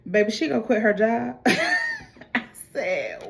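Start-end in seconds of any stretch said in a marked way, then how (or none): 1.4-2.3 high-pitched laugh; amused outburst of laughing; burst of laughter. Real, not acted. Host reacting to the wife quitting her job, high laugh.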